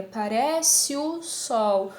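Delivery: very slow "parece o", vowels linked; sinalefa. Shown as a demonstration. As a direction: stretch "parece o sol", gliding E into O. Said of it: "é mais forte que a outra". ("parece o sol" bem devagar, E ligado ao O)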